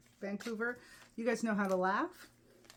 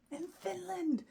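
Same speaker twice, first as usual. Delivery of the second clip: excited exclamation; 10 semitones higher than usual. Real, not acted. Excited about the Finland trip.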